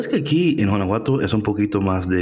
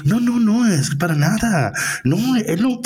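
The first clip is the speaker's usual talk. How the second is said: mock defensive; 12 semitones higher than usual. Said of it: "súper defensiva".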